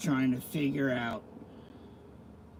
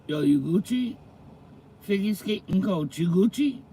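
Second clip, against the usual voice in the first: imitating slang kids; 3 semitones higher than usual. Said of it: "I can't imagine talking like this".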